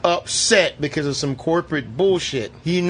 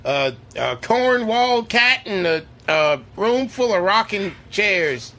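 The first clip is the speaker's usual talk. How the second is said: lightly put-on Texan accent, higher after the first word; mock Texan accent; 3 semitones higher than usual. Mocking the actor's slipping accent, mock Texan. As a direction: ham up a bit of Texan drawl. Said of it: "that Texan accent just fucking disappeared".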